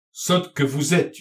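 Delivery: acted exasperated outburst, slightly held back; angry yell. A narrator's reading. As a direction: scold slowly, drawing out the insult. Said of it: "hurla monsieur Irnoy".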